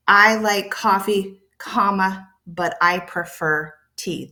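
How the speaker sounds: slow reading, breaking after "coffee" to say "comma"; pause at comma. Shown as a demonstration. Teacher showing where the comma goes, pausing after "coffee". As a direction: stop after "coffee", name the comma, then go on. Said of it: "There's a pause there".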